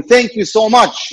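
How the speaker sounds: put-on Italian accent. Joke's Italian prisoner thanking the warden, mock Italian accent. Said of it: "in his Italian accent".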